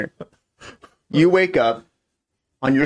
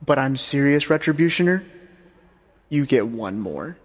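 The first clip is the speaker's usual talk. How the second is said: serious Death. Acted. Death's final warning.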